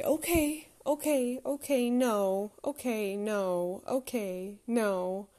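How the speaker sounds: put-on a child's nervous repeating, winding down; lightly imitated scared toddler; anxious toddler. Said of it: "he'll say".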